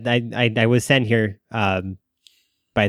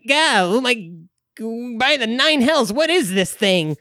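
high, far-off hammed-up exclamation; exclaim; 11 semitones higher than usual. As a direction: blurt it out in shocked wonder. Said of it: "uh, exclaim".

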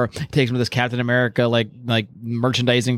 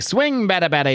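swinging sound effect; 6 semitones higher than usual. Retold or imitated. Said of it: "He's just swinging this guy's".

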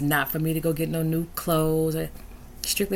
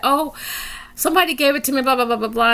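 high, casual brush-off voice; lightly voiced breezy lady; breezy offhand lady; 8 semitones higher, faster than usual. Retelling lady's offhand reply.

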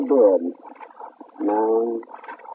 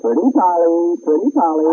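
coaxing a parrot; 6 semitones higher than usual. Acted. Talking to the parrot.

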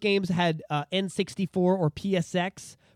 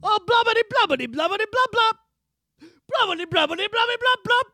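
high, loud blubbering creature voice; gurgling fish man croak; 5 dB louder than usual. Retold or imitated. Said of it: "you would just hear the same".

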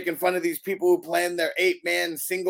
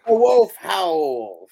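announcer call; 3 semitones higher, 6 dB louder, much slower than usual. Acted. Slow hyped call of the name.

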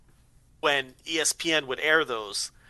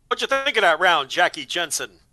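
put-on old-timey announcer; 3 dB louder than usual. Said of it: "old-timey voice".

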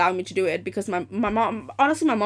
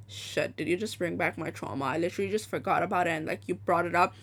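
hushed dread; 4 semitones lower, 7 dB quieter than usual. Retold or imitated. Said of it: "I was like".

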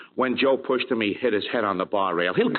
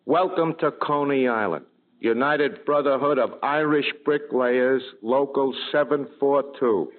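higher, measured sign reading; reading aloud in a raised pitch; 4 semitones higher than usual. Acted. Reads a street sign aloud.

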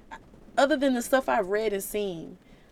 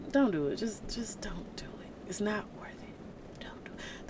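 Holy Spirit; 10 dB quieter than usual. Acted. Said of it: "Holy Spirit, like".

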